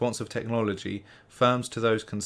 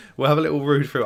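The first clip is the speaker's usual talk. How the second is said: talking through giggles, pitched up; 4 semitones higher, 7 dB louder than usual. Starting to read through an article aloud, laughing while talking. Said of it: "I'm sorry if I'm laughing".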